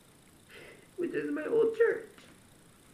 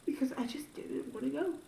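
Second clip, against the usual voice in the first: whispered, half-ashamed aside; 4 semitones lower, 3 dB quieter than usual. Real, not acted. Whispering to her viewers why she skipped church. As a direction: drop to a breathy whisper.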